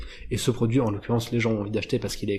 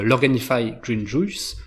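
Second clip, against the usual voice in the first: French speaker's attempt at an English accent; self-mocking English accent; slower than usual. Shown as a demonstration. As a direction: say it slowly in your best would-be English accent. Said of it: "avec mon magnifique accent anglais". (accent anglais approximatif et assumé)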